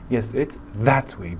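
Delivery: that pushed out slowly; slow demo stressing that. Shown as a demonstration. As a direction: point with the word that. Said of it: "دقت کنین به استرس فشاری که روی کلمهٔ that هستش".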